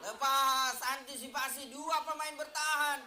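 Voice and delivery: rising to a shout on the blocked attack; excited commentary. Real, not acted. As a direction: call the near miss at full voice. Attack breaks through, shot blocked.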